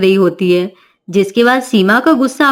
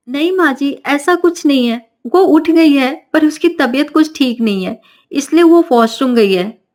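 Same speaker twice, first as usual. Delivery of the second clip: nervous daughter-in-law; 3 semitones higher than usual. Acted. Daughter-in-law covers for Navya.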